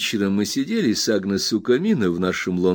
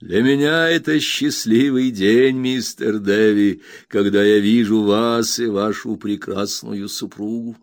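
a hint of a hearty old friend, a bit louder; lightly voiced hearty old man; 4 dB louder than usual. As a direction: greet an old friend with mild gladness. Old Peggotty greets his friend.

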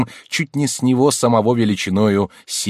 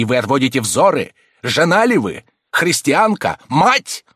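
much higher, louder, reproachful cry building; shouting; 6 semitones higher, 4 dB louder than usual. A narrator's reading. Abbé shouting reproaches at the submissive countess, accusing cry. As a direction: hurl each question at her. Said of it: "закричал".

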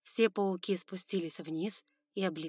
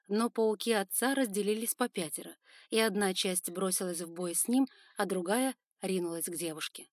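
ordinary delivery

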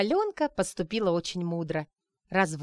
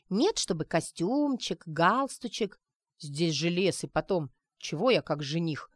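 бубнил. Acted. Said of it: "бубнил Грумов".

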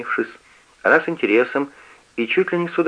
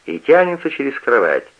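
usual speaking voice

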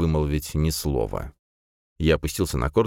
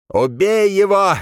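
loud, slow, high barked order; commanding shout; 7 dB louder, slower than usual. A narrator's reading. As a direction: yell the command to kill. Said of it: "приказным тоном выкрикнул некромант".

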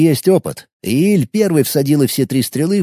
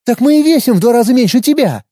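dismissive retort; 9 semitones higher, 4 dB louder than usual. Acted. Sveta brushes off Gril's complaint, dismissive. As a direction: brush him off, higher and a bit louder. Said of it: "отмахнулась от него Светка".

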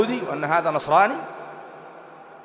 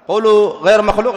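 louder, higher, insistent command; pressing demand; 4 semitones higher, 5 dB louder than usual. Acted. Sunnis press the hesitant sect to declare it, raised demand. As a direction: demand that they say it outright. Acted challenge to the doubters again.

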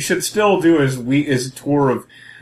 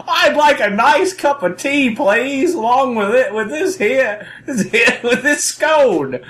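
high, hammed-up Cockney voice; mock Cockney; 11 semitones higher, slower than usual. Co-host ordering tea as a Cockney, mock Cockney. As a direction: put on a silly Cockney, laughing through it. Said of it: "didn't wanna disgrace the Cockneys".

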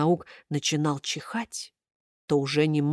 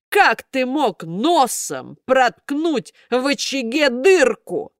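a hint of gruff puppet master; 6 semitones higher, 3 dB louder, slower than usual. A narrator's reading. Karabas questions puppet.

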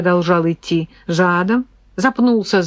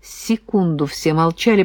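plain reading voice

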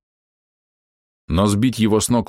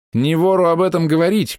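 shout; 9 semitones higher than usual. Acted. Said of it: "крикнул я в ответ".

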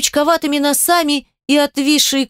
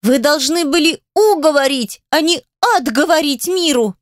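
scolding; 5 semitones higher than usual. Acted. Adel scolding Graham.

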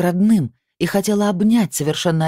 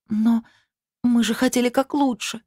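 put-on a timid girl's voice, high and small; timid, sniffling; 9 semitones higher than usual. Alina timidly justifying herself to the family, sniffling. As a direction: defend yourself shyly, close to tears. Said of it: "робко начала Алина, шмыгнув носом".

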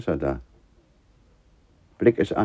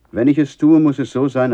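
urgent insistence; 4 semitones higher, 6 dB louder than usual. Acted. Father pressing the sacrifice.

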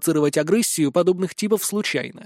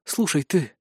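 through gritted teeth; 4 dB quieter, slower than usual. Acted. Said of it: "сквозь зубы процедила Ванесса".

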